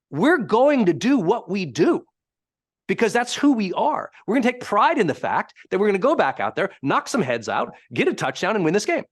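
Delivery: rally them with conviction, as the coach did; assertive coach. Retold or imitated. Coach sending players back onto the field, acted assertive. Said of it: "how he got so assertive in it".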